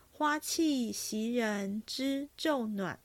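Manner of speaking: slow, measured line of poetry; recited couplet. A narrator's reading. Actor quotes a remembered couplet, slow recitation. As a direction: recite it with space between the words. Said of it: "念道".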